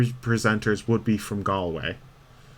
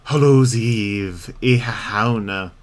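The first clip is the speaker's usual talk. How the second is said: drawn-out exclamation; 3 dB louder, slower than usual. Pretend. Streamer reacting to Halloween, slow and drawn out.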